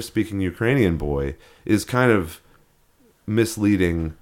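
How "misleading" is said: ordinary talk, nothing marked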